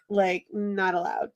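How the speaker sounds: whispered firm verdict; whispering. Real, not acted. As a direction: breathe it out as a whisper. Half-whispered verdict on banning books.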